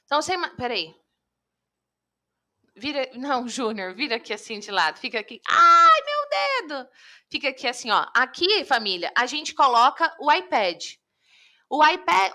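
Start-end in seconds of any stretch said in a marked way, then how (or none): 5.5-6.9 pained yelp. Real, not acted. Hurts her finger on the glass.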